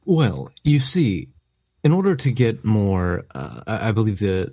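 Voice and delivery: a hint of a frail old professor; very old man. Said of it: "I'm a very old man".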